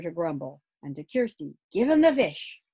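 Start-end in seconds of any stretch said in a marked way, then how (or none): 1.7-2.6 firm instruction. Acted. Father instructs Kirsty.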